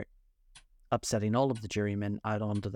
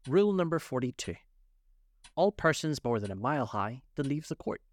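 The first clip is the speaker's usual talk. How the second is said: higher-pitched proclamation of a rule; reading out; 5 semitones higher than usual. A narrator's reading. King announcing from his rule book, reading out. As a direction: read it out officially. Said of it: "read out from his book".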